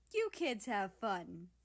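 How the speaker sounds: drawn-out playful coo; a hint of teasing coo. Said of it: "he cooed".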